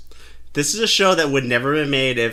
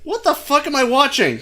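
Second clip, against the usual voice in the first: laughing disbelief; 10 semitones higher than usual. Retold or imitated. Retold reaction to the show.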